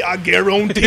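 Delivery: a mock Cajun "I guarantee" shouted out; Cajun catchphrase. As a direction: belt "I guarantee" the way Gambit would. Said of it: "I was waiting for him to say".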